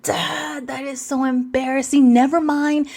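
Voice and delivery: embarrassed kid brushing Dad off, acted out; embarrassed teen protest.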